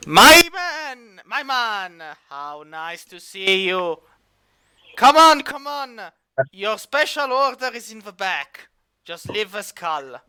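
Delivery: hearty opening cry, then settling down; welcoming elf barkeep. Acted. Elf bartender greeting a returning customer, hearty welcome. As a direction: hail a favourite regular, then ease off. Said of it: "looks at Ravandiel and grins".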